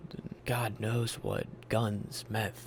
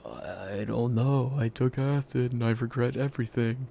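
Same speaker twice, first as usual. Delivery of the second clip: retold despair; 7 dB louder than usual. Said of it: "And I'm like".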